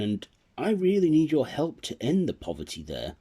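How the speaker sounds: a hint of a hopeful Nicholas pleading; Nicholas voiced. Nicholas asking the fairy to help his poor village, earnest.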